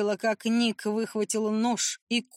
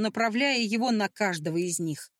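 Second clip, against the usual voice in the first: plain reading voice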